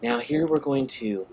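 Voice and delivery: lightly imitating a gentle, soothing painting host; a hint of a sleepy painter's calm; Bob Ross. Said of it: "he's got that soothing voice".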